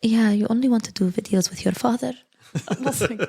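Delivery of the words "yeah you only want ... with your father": higher, sulky mock-jealous mom voice; a teasing put-on of a sulking mother; imitating jealous mom.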